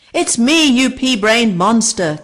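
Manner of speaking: high, loud rude insult; cheeky little bird yelling insults. A narrator's reading. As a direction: snap back, high and loud. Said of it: "came the reply".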